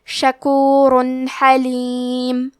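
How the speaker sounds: شکور حلیم میں تنوین کا نون صاف، بغیر غنہ; آہستہ، نون کو ظاہر کر کے; اظہار بغیر غنہ. Shown as a demonstration. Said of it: "تنوین کو ظاہر کریں گے اور بغیر غنہ". (تنوین کا اظہار بغیر غنہ کے)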